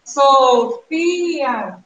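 "Sofia" slowly broken into syllables; split into syllables. Shown as a demonstration. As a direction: sound out "Sofia" piece by piece. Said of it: "porque Sofia divide em três". ("Sofia" separado em sílabas, devagar)

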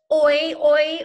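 whispered oi, oi. Shown as a demonstration. Teacher whispering the oi sound to the class. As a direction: breathe the sound with no voice.

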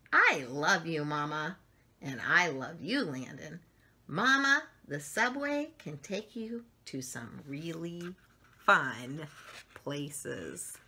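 slow, gentle storybook reading; lively picture-book narration; reading to children. A narrator's reading. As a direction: read it like bedtime story time for little ones.

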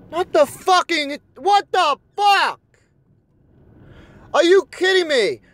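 high, drawn-out angry disbelief; exasperated outburst. Real, not acted. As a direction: wail in outrage at the game. Raging at the game.

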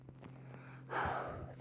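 long breathy sigh. Real, not acted. Player mid tense game run. (derin bir iç çekiş)

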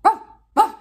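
high, loud barking wow; dog bark imitation. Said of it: "it'd be like".

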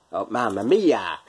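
drawn-out hammy Italian exclamation; mock Italian accent. Quiz host hamming up the title, mock Italian accent. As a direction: stretch it out in a put-on Italian accent. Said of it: "that little bit of an accent".

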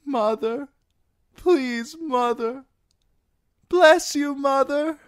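high, loud crowd of voices crying for their mother; calling out. Acted. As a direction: call out desperately across the crowd. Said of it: "called out".

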